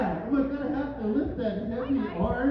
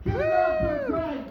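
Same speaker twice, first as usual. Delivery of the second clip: hyped call. Shown as a demonstration.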